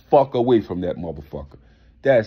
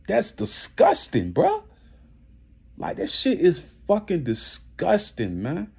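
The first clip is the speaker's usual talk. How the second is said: exasperated retort; 5 semitones higher than usual. Retold or imitated. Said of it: "I'm like".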